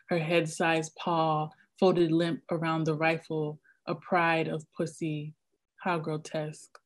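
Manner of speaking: measured, hushed reading of a poem; poetry reading. Acted. Poet reading her poem aloud to the audience, measured and hushed.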